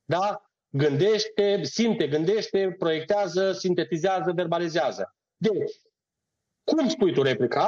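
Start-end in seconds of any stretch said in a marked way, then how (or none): 0.7-5.2 patient teacher counting stages; slow demonstrative listing. Shown as a demonstration. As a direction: lay out the steps one by one for a student. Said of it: "rodul unui proces".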